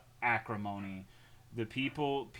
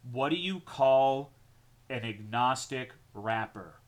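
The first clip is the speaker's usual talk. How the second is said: joke delivery. Shown as a demonstration. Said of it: "run this by you guys as material".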